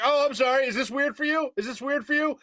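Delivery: high, insistent mock apology; imitated yelling. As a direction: imitate a loudmouth apologizing at full pitch. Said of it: "it's still yelling".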